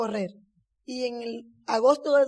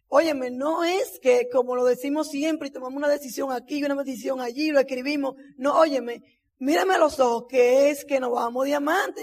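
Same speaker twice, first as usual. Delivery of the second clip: insistencia moderada, alargando las palabras clave; insistencia retellada. Retold or imitated. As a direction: pide atención con firmeza, recreando la discusión. Insiste al esposo que la escuche. (esposa que reclama atención, insistente)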